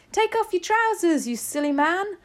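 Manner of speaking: high, loud scolding shout. A narrator's reading. Kitchen worker telling cook to undress, shouting. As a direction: shout instructions at a panicking fool. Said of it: "someone else shouted".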